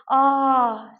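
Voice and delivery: demonstrated relieved "ah"; sigh of relief. Shown as a demonstration. Lecturer demonstrating paralanguage to students, sigh of relief. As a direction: let out a drawn-out relieved sigh. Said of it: "making a sigh of relief".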